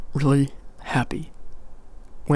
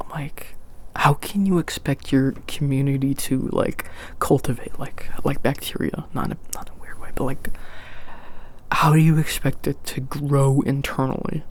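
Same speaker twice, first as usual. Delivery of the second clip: whispering. Real, not acted. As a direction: breathe it out in a whisper. ASMR whisper aside.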